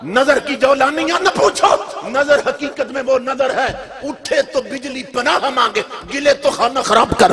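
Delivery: recited couplet with preacher's force; poem recitation. Acted. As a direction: declaim the verse with fervour. Recites a verse. (جوش سے شعر پڑھنا)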